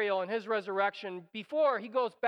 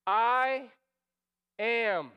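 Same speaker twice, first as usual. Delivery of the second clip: firm declaration; 4 dB louder than usual. Pretend. God's answer declared.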